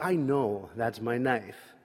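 slow, deliberate, stubborn claim; slow insistence. Retold or imitated. Friend Scott slowly insisting the knife is his. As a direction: lean on each word, sure of it.

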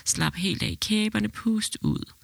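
slow, steady coaching through a contraction; calm breathing coach. Retold or imitated. Boyfriend coaching his partner's breathing, slow and calm. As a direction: talk her through the breath gently. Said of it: "så gik min kæreste i gang".

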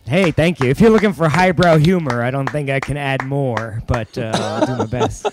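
muffled, like talking through a mask; muffled voice, mouth covered; through a face mask. Real, not acted. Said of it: "Is he talking through a mask?".

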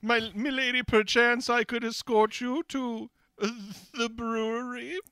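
put-on high old-timey fop voice; hammy stage actor. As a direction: play a prissy dandy suitor. Fop character courting.

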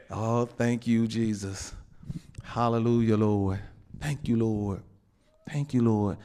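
hushed praise. Real, not acted. Murmured praise after a burst.

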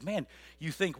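normal talking voice

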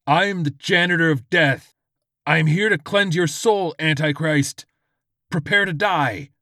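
loud, high proclaiming zealot; George in character. Acted. George confronts the supposed Antichrist, loud righteous threat.

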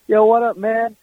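high, cocky greeting with swagger; swaggering buddy. Retold or imitated. Imitating a friend's swaggering hello, pitched high. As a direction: strut into the words like a cool friend. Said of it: "have his little swagger that he has".

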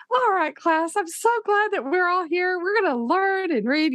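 high, bright-eyed first-day teacher voice; sweet teacher voice. Retold or imitated. Teacher to new class, mock sweet welcome. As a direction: play the overeager new teacher greeting class. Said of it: "I don't know if I talked like that".

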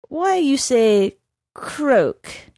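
slow, chilly horse voice; cold menace. A narrator's reading. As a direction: ask it icy and suspicious. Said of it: "became completely cold".

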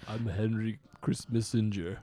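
put-on slow, heavy Swedish action-hero accent; lightly voiced barbarian menace; Dolph Lundgren voice. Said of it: "You sound like Dolph Lundgren".

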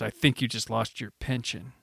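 low, soft deadpan quip; Bond one-liner. Retold or imitated. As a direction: drop it low like a cool spy pun. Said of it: "like, little, like, Bond one-liners".

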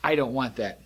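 mild stubborn no; firm refusal. Shown as a demonstration. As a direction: push it away with the voice. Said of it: "when you say".

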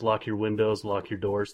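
Antoine Dodson quote. Retold or imitated. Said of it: "That was, uh, Antoine Dodson".

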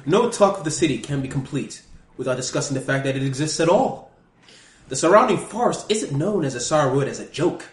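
put-on British scholar reading a guidebook; hammed-up British guidebook narration; silly British accent. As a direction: read it out in a mock-British narrator voice. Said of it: "I'm using a British accent".

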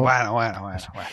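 dudoso, alargando los bueno; escéptico y burlón; sceptical. Real, not acted. (tono de "ya, claro")

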